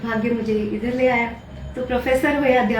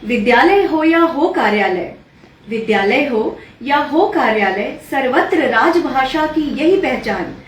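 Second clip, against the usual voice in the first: declaimed verse, much louder than her talk; poem recitation; 10 dB louder than usual. Acted. Poet reciting her poem on Hindi to her host, declamatory recitation. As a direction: recite it out boldly with swinging, rhythmic intonation.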